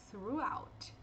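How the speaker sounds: throughout breathed as a whisper. Shown as a demonstration. Teacher whispering the word as a practice echo.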